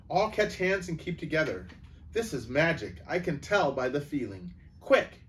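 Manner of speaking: rally the others quickly. Acted. Narrator voices Edmund taking charge.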